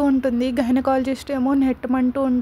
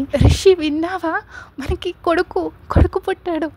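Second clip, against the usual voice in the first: excited; 5 semitones higher, 4 dB louder than usual. A narrator's reading. Son just born, joyful news.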